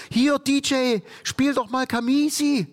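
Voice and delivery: high-pitched retold request to the DJ; pushy party guest. Club guest asks the DJ for a song, high and insistent.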